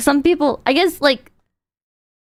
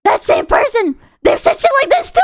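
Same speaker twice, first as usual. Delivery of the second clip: worked-up rant; slower than usual. Real, not acted. Telling chat about the same woman, worked-up shouting.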